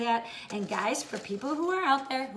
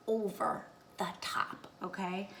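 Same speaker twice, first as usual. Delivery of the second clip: whispering; 2 semitones lower, 6 dB quieter than usual. Real, not acted. Confiding tip to viewers.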